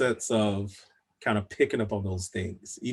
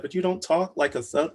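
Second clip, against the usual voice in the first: incredulous quote; 8 semitones higher, 3 dB louder than usual. Retold or imitated. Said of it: "they're like".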